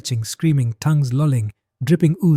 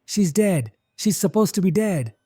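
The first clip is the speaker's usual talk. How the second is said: high panicked cry, held back in volume; screamed disbelief; 6 semitones higher than usual. A narrator's reading. Eliza stumbles back from the walking corpse, a restrained scream. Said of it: "Eliza screamed".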